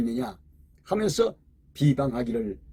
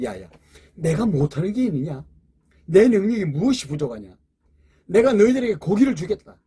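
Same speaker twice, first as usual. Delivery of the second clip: building from calm rebuke to a loud, higher proclamation; a commanding God, rising to a loud promise; God's rebuke; 3 semitones higher, 4 dB louder than usual. Retold or imitated. Preacher voices God answering Moses.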